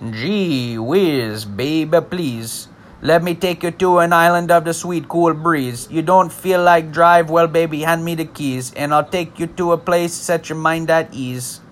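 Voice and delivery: lyric read in a light Jamaican patois lilt; a mild Jamaican patois lilt; Jamaican accent. Shown as a demonstration. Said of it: "let me give you a little example here".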